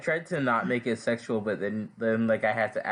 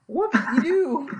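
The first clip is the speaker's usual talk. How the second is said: shocked outcry; 6 dB louder than usual. Real, not acted. Shock at his character's death.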